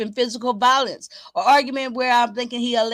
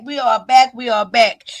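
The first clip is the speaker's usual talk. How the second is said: louder excited announcement; loud call; 7 dB louder than usual. Real, not acted. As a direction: call it out to the chat. Calling out to chat viewers.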